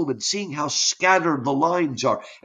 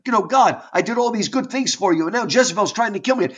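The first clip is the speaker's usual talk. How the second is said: higher, hurried protest to God; upset complaint; 5 semitones higher, faster than usual. Acted. Elijah complaining to God, upset and hurried. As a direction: complain fast, pitched up, mildly upset. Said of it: "upset because he's like".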